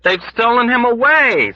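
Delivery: high, loud scream; loud panicked scream. Acted. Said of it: "screamed someone else".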